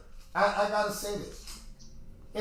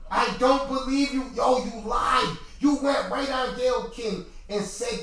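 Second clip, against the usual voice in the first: loud, heated accusation; angry call-out; 4 semitones higher, 4 dB louder than usual. Real, not acted. Host shouting at a rapper for lying, angry. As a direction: shout it at her like she lied to you.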